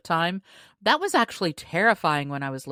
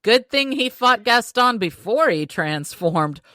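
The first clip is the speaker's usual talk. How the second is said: excited quote; 4 semitones higher, 6 dB louder than usual. Retold or imitated. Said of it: "had me going".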